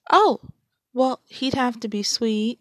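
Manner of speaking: high startled oh; surprised. Acted. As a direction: caught off guard. Flustered reaction to romance question.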